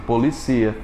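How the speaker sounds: "Policia" com a tônica no CI. Shown as a demonstration. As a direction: acentue o CI de "Policia". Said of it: "a posição da sílaba tônica". (tônica no CI de "Policia")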